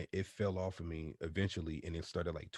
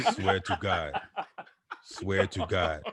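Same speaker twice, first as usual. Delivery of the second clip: Impression of a deep-voiced singer; 6 dB louder, slower than usual. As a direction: boom it out like a deep-voiced singer, laughing. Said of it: "My voice went from Barry White to Whitney Houston".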